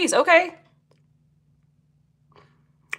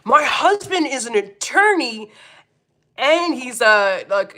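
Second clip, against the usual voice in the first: mock Karen; 3 semitones higher, slower than usual. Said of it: "you're supposed to say".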